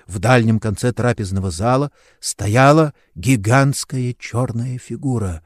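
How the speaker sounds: usual speaking voice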